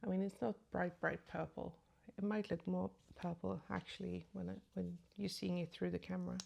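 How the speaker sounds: mumbling with a swollen tongue; slightly thick, mumbled words. Real, not acted. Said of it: "I'm sorry if I'm mumbling".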